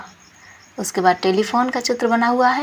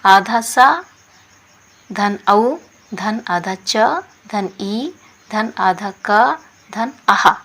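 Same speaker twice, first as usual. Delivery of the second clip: slow spelling out; slower than usual. Shown as a demonstration. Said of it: "spelling out letter combinations".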